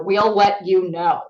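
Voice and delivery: slow and heavy, each word weighted; slow, ominous. Retold or imitated. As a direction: let it land like a verdict. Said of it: "the knife in the heart to any actor".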